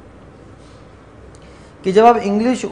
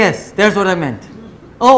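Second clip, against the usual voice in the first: very slow deliberate reply; 2 semitones higher, 6 dB louder, much slower than usual. Retold or imitated. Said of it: "میں".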